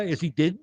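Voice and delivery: dead said as DID, slightly lofty; affected rich-man vowel in dead; rich guy's dead. Shown as a demonstration. Comic gives the rich guy's version of is he dead, with DID. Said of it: "Rich guy".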